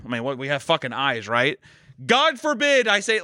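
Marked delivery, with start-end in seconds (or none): 2.0-3.2 higher, slower "God forbid"; mock outrage. Real, not acted. Griping to his friend about his wife. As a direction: play up the injustice.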